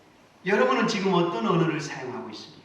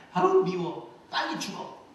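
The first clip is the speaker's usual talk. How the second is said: spiteful curse. Retold or imitated. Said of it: "그렇게 얘기했답니다". (화분에게 미워하며 내뱉는 저주, 끝은 높은 속삭임)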